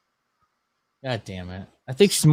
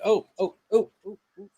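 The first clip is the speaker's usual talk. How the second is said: imitating Sandra Bullock; 7 semitones higher, 5 dB quieter, faster than usual. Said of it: "the way she's kinda like".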